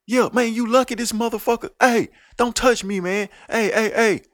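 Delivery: mock tough guy. Mocking a fake tough guy.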